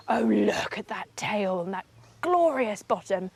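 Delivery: hushed whisper. Real, not acted. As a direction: whisper so the beaver isn't disturbed. Hushed while watching live beaver.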